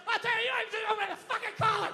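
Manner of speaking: dad scolding priest. Retold or imitated. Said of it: "my dad started getting his leg on".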